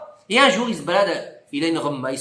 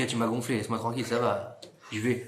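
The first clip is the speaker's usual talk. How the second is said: mari excédé; 9 semitones lower, 10 dB quieter than usual. Retold or imitated.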